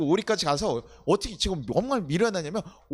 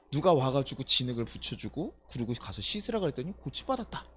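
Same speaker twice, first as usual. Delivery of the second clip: healed blind man; 3 semitones lower than usual. Pretend. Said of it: "그 사람은 뭐라고 하는 거예요".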